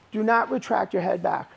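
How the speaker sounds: a firm, loud correction to the class; loud coaching call. Real, not acted. Coach correcting students in class, loud firm call. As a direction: call it out across the mat.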